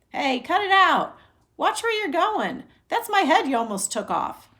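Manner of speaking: indignant shouted complaint; angry yelling. Acted. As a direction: yell at the boys who nearly hit you. Pedestrian yelling at ball players.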